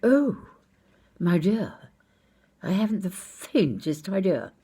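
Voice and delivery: a touch of hammed-up dismay; crestfallen. Security man admitting he has no idea, crestfallen. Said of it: "he looked very crestfallen and said".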